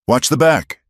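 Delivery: high, urgent yell across the room. A narrator's reading. Cal to Eliza during the firefight, a high yell. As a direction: bark it over the gunfire. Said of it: "Cal yelled".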